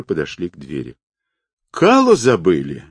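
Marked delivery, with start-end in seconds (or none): 1.7-2.8 mildly raised indignant call; a light mock outrage thrown after them; half-hearted indignant yell; indignant shout. A narrator's reading. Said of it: "возмущенно крикнул Вихрев".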